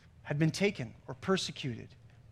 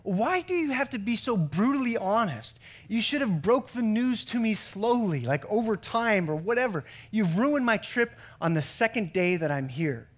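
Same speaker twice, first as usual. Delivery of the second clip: upset wife; 3 semitones higher than usual. Retold or imitated. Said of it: "she gasps and says".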